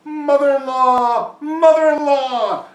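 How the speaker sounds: high, drawn-out holler; yelled out. A narrator's reading. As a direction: call loudly across a lake, stretching each word. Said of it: "he yelled out".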